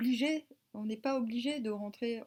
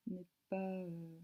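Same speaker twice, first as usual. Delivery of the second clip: trailing off; 6 dB quieter, slower than usual. Real, not acted. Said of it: "Je sais plus ce que je voulais dire".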